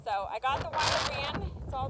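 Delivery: talking over wind. Real, not acted. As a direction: push the voice over a gusty wind.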